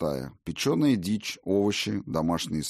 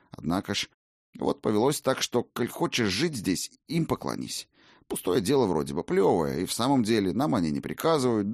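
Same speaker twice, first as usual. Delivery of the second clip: humble, quick and ingratiating; fawning innkeeper; 2 semitones higher than usual. Acted. Innkeeper explains.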